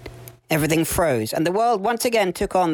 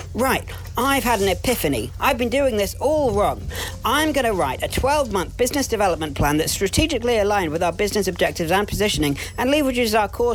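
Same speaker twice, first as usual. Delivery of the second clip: higher-pitched, earnest rush of business jargon; zealous employee pitch; 5 semitones higher than usual. Acted. Sam pitching his new plan to the MD, eager and higher. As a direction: pitch your epiphany eagerly to the boss.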